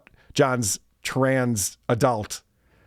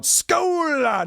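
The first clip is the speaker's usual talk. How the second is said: mock toast; 12 semitones higher than usual. Reading a chat toast.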